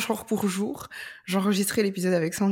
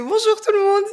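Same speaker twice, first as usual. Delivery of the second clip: cheery greeting; 14 semitones higher, 7 dB louder than usual. Retold or imitated. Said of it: "tu fais".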